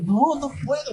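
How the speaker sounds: can't hold it in; agitated refusal. Retold or imitated. Pastor protesting to his calming wife, worked up. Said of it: "Luego mi esposa dice".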